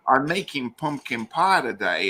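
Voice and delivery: a hammed-up, badly faked American accent; mock American voice, not quite landing. British host mocking an American baker with a bad American accent. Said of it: "that's the worst American accent I think I've ever done".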